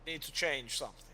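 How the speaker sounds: a believer voicing shaken faith; troubled warrior. Helwyn telling Father his faith is shaken, grave and earnest.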